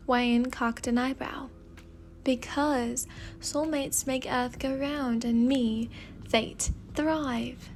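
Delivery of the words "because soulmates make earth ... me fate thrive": put-on slow British-accented explanation; Fate's British accent. Fate explains soulmates to Y N, British accent. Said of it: "speaking in a British accent".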